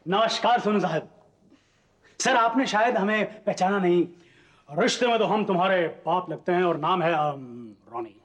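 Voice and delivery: high, mock-grand filmy dialogue delivery; filmy hero voice. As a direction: play the swaggering film star. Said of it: "लेकिन आप ऐसे क्यों बोल रहे हैं?".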